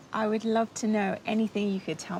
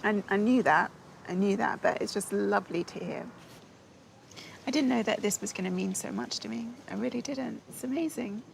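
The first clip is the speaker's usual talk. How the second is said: overwhelmed with gratitude, softening towards the end; crying for joy. Real, not acted. Granddaughter moved by hearing of her family, crying for joy. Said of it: "you're crying for joy".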